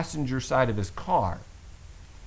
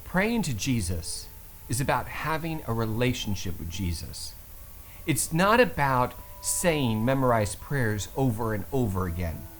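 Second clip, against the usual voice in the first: calm voice. Retold or imitated. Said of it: "In a very calm voice".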